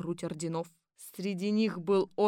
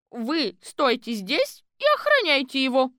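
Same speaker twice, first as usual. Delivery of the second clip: higher, louder order; commanding; 6 semitones higher, 6 dB louder than usual. Acted. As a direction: give the watchman orders. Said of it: "приказала гражданка Четверухина". (приказным тоном, громко и выше)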